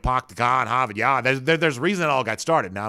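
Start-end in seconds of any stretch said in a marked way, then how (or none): 0.0-1.2 put-on stereotype Boston accent. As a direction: lightly imitate a clichéd Boston accent. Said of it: "stereotype cliche".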